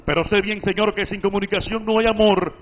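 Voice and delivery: brisk, even conversational reading; quick, light reading. Shown as a demonstration. Teacher demonstrating the quick, light everyday reading to the class. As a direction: read it nimbly and lightly. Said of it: "en esa forma ágil y picadita".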